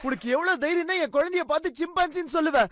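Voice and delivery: sharp high shout, then angry scolding; mother enraged that her baby was called a chimp; furious outburst. Acted. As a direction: lash out at the rude kids.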